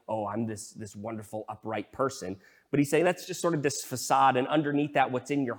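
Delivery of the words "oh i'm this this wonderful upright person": mock self-satisfied. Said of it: "facade of looking like".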